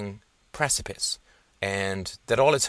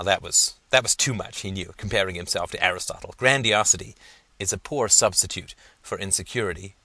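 ordinary delivery, nothing marked

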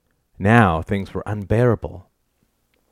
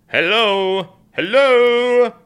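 high, drawn-out hailing; mocking call-out; 14 semitones higher, 4 dB louder, much slower than usual. A narrator's reading. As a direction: hail her as if from afar. Husband calls to wife ignoring him.

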